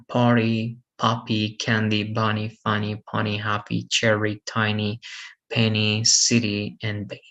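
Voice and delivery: "Party, puppy, candy" ending in an "ee" sound. Shown as a demonstration. Teacher reading two-syllable examples for students, Y as E. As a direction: say final Y in "funny, pony, happy" as "ee". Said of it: "Y is pronounced as".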